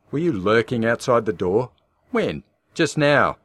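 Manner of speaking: loud, high and tense; frightened accusation. Acted. Shaken wife questioning husband about lurking, tense. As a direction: demand it, shaken and scared.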